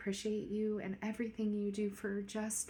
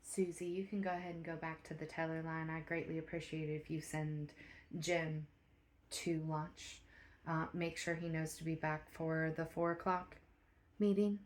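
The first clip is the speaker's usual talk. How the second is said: quiet private talk; 7 dB quieter than usual. Acted. Manager's quiet private meeting.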